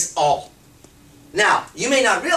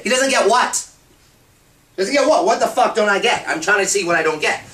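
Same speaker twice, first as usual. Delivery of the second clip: indignant retort; 3 semitones higher, 3 dB louder than usual. Acted. Man firing back at his complaining woman, indignant and loud. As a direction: throw the question back, irritated.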